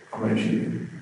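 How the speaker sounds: flat, nonchalant threat; monotone. Retold or imitated. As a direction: say it like it means nothing. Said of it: "just nonchalant, a monotone voice".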